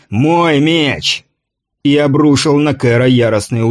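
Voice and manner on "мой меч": higher-pitched narrated roar, vowels stretched. A narrator's reading. Intruder demanding his sword, a high drawn-out roar. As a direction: roar it out, drawing out each word. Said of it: "взревел пришелец".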